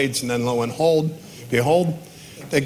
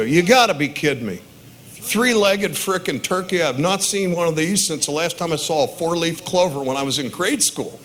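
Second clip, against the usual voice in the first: hammed-up disbelief, higher pitch; mock amazement; 4 semitones higher than usual. Dad faking amazement at the turkey for his kids, hammed-up disbelief. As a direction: sell the three-legged turkey like a shocked dad. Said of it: "I throw up my hands and go".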